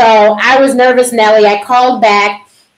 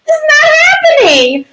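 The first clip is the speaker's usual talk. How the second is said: high stunned disbelief, much higher. Retold or imitated. Told she needs a biopsy, high stunned disbelief. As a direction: cry it out in disbelief. Reliving shock at the news.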